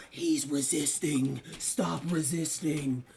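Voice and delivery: slow, stern police officer; cop voice. Acted. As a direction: drawl it like a bored cop.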